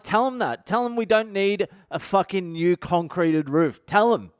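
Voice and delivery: retold exasperated command; rude insistence. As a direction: order it relayed, rudely insistent. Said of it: "Can you stop being so rude?".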